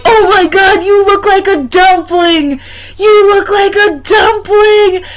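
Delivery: high, loud, slow squeal breaking into laughter; delighted laughing squeal. Retold or imitated. To the man wrapped in a blanket, squealing with laughter.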